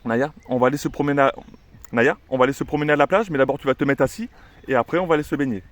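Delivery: lively, singsong promise of the beach; cheerful to the dog. Shown as a demonstration. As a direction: chat eagerly to the dog, command tucked inside. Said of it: "on va mettre le assis au milieu". (promettre joyeusement la plage à la chienne)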